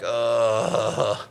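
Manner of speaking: long, low waking-up groan; imitated resigned groan. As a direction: groan at being awake, mock-weary. Retold giving up on sleep.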